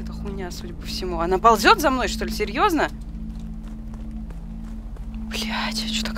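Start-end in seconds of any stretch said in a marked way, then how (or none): 5.3-6.2 scared unvoiced whisper. Real, not acted. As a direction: breathe it out in fear. Creature crawling closer, scared.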